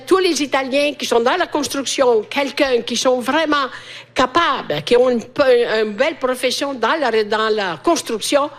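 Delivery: mild re-enacted calling out over the radio; re-enacted radio appeal. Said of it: "j'ai crié entre Montréal et Rome".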